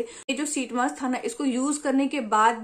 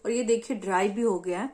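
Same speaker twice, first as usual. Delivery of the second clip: talking through face mask; wearing a sheet mask. Real, not acted. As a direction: lips framed by mask. Seen 2: Wet sheet mask covers face throughout; mouth hole leaves lips free.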